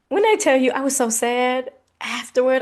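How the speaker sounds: 1 emphatic. Real, not acted. Emphatic storytelling outburst.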